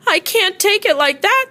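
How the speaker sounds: sick friend's voice. A narrator's reading.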